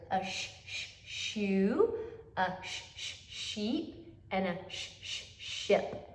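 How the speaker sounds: quiet hissed "sh, sh" then each word; sound-out. Shown as a demonstration. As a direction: read the poster sound by sound. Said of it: "Look at our digraph S H poster".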